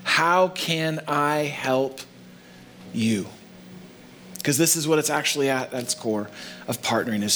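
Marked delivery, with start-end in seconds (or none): 0.0-3.3 slow, deliberate question. Shown as a demonstration. Pastor to congregation, slow earnest question. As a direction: draw out how can I help you. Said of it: "Powerful follow-up question".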